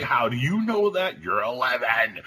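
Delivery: high, squeaky astonished dad; imitated disbelief, pitch way up; retold incredulity. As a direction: demand it in mock parental shock. Retold shocked parent to daughter.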